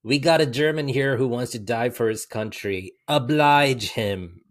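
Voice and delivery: lightly imitated movie accent, slowing on the last words; Brad Pitt's accent. Delivering Aldo Rain's line to a co-host, playful accent. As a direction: quote it in a mock accent, drawing out the ending. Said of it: "overdoing a lot of this accent stuff".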